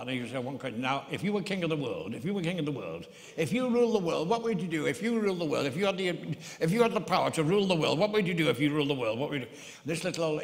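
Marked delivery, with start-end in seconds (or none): 0.8-9.5 put-on northern accent. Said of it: "Wilfred Pickles, like, northern accent like that".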